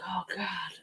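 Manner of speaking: a soft breathy whisper to herself; whispered thought. Retold or imitated. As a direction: breathe the words out, barely voiced. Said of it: "now I'm like".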